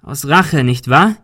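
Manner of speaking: calling out. Acted. Ben challenging the man in the fog, calling out. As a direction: call the accusation across. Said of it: "rief Ben".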